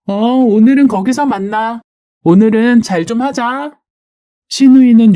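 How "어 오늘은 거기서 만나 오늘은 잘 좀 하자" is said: put-on higher, casual young gamer voice; lightly voiced chat with gaming friends; sister-in-law chatting. Sister-in-law setting up a game with friends, casual chat.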